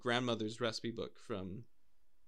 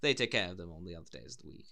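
lower, mock upper-class English; posh British accent; 5 semitones lower, faster than usual. Playing a horse owner with servants, posh British accent. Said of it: "get it too far off with our impressions".

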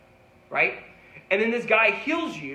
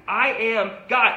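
slow, loud declaration as Jesus; Jesus slowly declaring to the Jewish authorities, loud; Jesus proclaiming; 3 semitones higher, 5 dB louder, slower than usual. Acted. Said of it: "he's saying to these Jewish authorities".

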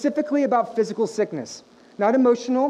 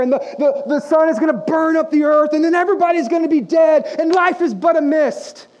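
mock doom rant building; 2 semitones higher, 3 dB louder than usual. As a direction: pile on the catastrophes, getting louder each line in mock despair. Parody of doom-laden gloomy theology.

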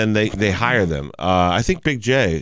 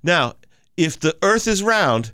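flat earther; 6 semitones higher than usual. Retold or imitated. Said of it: "and he goes".

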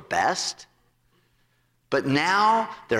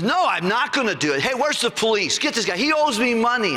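higher, indignant calling for police; angry refusal; 6 semitones higher than usual. Retold or imitated. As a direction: refuse him and call the cops. Servant refuses and calls police.

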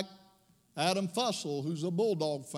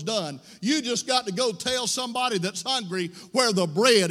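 louder, ringing sermon call to go and tell; preaching at full force; 4 dB louder than usual. Acted. Pastor urging his church to share the bread, full-force preaching. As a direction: preach it out over the organ. Preacher exhorting, music under.

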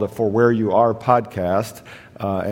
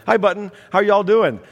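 imitating grandma; 9 semitones higher than usual. Grandma voiced in phone story.

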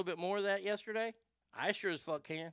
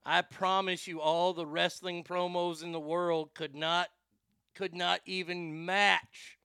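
wrestling promo; 3 semitones higher, 5 dB louder, slower than usual. Real, not acted. Wrestling promo style bravado.

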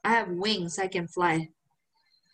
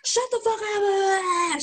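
high, slow, whiny mock girlfriend; imitating the girlfriend dragging it out; drawn-out mock girlfriend; 9 semitones higher, much slower than usual. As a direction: stretch the words in disbelief.

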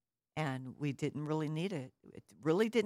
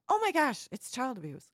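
high, loud burst of feigned shock; mock outrage; 9 semitones higher, 6 dB louder than usual. Onlookers accusing parents who discipline their child, mock outraged. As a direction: imitate a scandalized onlooker, starting very high.

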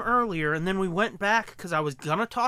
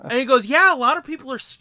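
laughing; 6 semitones higher, 8 dB louder, faster than usual. Real, not acted. Everyone laughing at the story.

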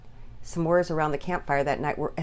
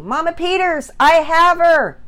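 high, loud jubilant call; near shout; 11 semitones higher, 13 dB louder than usual. Acted. Father into walkie-talkie to mother, shouting. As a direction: shout the good news down the line. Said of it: "He nearly shouted into his walkie-talkie".

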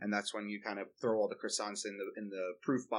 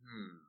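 thinking hmm; 11 dB quieter than usual. Real, not acted. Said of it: "Let me think on this one".

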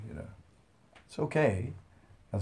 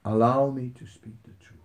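pleading Hanuman; 3 semitones higher than usual. Retold or imitated. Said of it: "Hanuman is just saying".

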